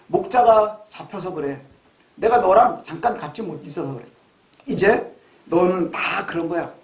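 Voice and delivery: gentle, unhurried reassurance; tender voice of the Lord. Acted. The Lord comforting disciples who failed him, tender. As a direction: console lovingly, easing down as you go. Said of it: "사랑스러운 눈으로 바라보시면서".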